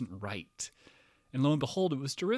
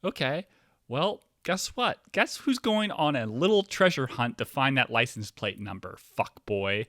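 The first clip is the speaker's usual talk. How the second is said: higher, louder sarcastic threat, slow on guess what; mock threat; 4 semitones higher, 6 dB louder, slower than usual. Man retorting to the Uber driver who lives nearby, higher, louder mock threat. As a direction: taunt him like a villain. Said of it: "I'm like".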